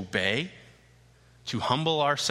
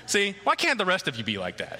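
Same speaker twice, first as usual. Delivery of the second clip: laughing tease; 5 semitones higher than usual. Real, not acted. Teasing congregation amid laughter.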